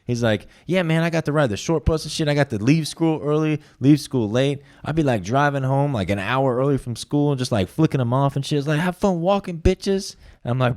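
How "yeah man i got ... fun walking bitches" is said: cocky brag, pitched up; high bragging voice. Retold or imitated. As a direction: boast like it's a perk, up high. Jonathan bragging about short bus.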